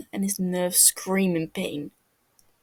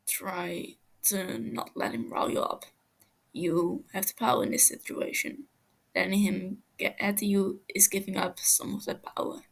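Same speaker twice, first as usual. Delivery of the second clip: calm advice; 4 dB quieter than usual. Acted. Techno quietly counsels Tommy to stay calm, soft and steady. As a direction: settle him down gently.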